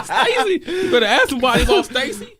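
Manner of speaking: high, fast tough-guy quote; security guard voice. Retold or imitated. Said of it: "And I was like".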